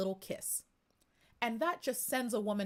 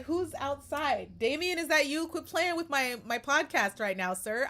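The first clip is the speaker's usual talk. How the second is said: saucy; 5 semitones higher, 6 dB louder than usual. Retold or imitated. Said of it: "I'm, like, saucy".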